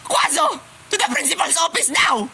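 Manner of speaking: high, broken mock-crying order; tearful outburst. Teacher sends student to the principal, tearful outburst. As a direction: banish them through hammed-up tears.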